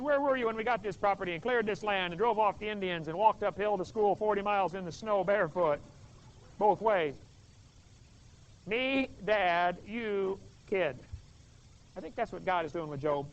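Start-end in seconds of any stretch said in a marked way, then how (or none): 0.0-11.0 stern dad. Retold or imitated. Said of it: "And Dad says".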